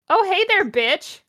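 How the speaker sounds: a hint of a bratty emo kid; high sneering greeting, lightly voiced; whiny emo teen. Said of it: "said in an emo voice".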